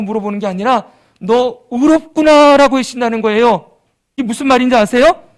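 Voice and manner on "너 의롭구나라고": slow, louder, lifted praise; a slow proclaimed blessing; warm declaration. Acted. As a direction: say it like God blessing you. God declaring righteous.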